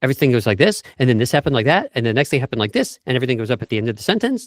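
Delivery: every phrase rising at the end; uptalk. Shown as a demonstration. Coach demonstrating tipsy upspeak, rising tune. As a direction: lilt each clause upward like a question. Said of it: "they have way more uptalk".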